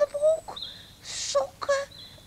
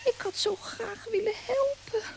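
mildly tearful, let-down lament; disappointed. Acted. Piertje left behind, wishing to help, mildly tearful.

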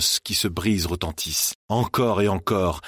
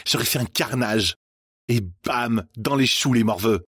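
put-on a lightly raised, cocky girl's voice; boastful Stella; 5 semitones higher than usual. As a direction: gloat like a ruthless winner. Stella brags over the bodies.

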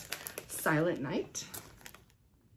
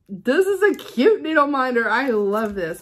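delighted; 4 semitones higher, 9 dB louder than usual. Real, not acted. Delighted by needle minder.

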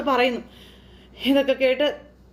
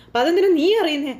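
raised, higher, angry voice; angry shout; 5 semitones higher than usual. Retold or imitated. Mother Chandramathi yelling at her son, mock angry shout. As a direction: snap at him like an outraged mother. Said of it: "ഒച്ച വെച്ചു".

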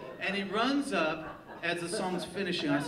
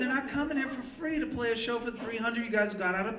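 higher, exasperated telling-off of the crowd; mock scolding; 6 semitones higher than usual.

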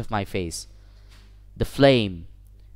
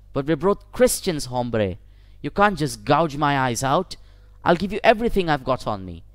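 desperate begging; 3 semitones higher than usual. Acted. Victim begging the knife-wielder not to gouge his eyes, frantic. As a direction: rush the plea, voice pitched up in fear. Victim begs stranger for mercy.

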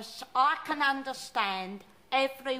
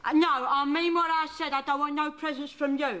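a cantankerous old London nan, put-on voice; put-on Cockney nan. Nan scolding her grandson, in a put-on old Cockney voice. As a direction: play the grumpy nan who wants no presents.

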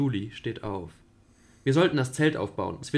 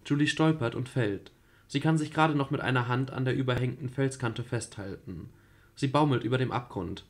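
even narrator reading; radio play narration. A narrator's reading. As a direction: read the scene calmly. Reads stage directions. (ruhige Erzählerstimme)

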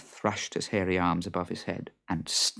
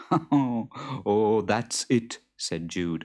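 Jude's voice; 4 dB louder than usual. Acted. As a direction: ask it loud and fretful.

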